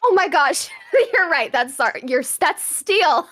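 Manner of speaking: laughing through an embarrassed apology; giggling while admitting a mistake. Real, not acted. Caught own mistake, laughing.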